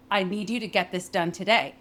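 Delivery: "I need you to get this done today" inflected but with each word separated; rhythmic, not continuous. Shown as a demonstration. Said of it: "we had a really rhythmic speech pattern".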